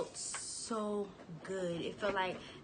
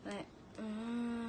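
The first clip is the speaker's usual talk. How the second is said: low moan; 4 dB quieter than usual. Shown as a demonstration. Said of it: "a low moan".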